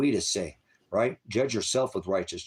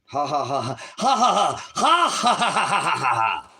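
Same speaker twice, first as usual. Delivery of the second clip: loud, high, slow mocking cackle at the chat; jeering belly laugh, much higher and louder; 6 semitones higher, 7 dB louder than usual. Real, not acted. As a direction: laugh them off scornfully, drawn out. Ranting streamer mocks chat.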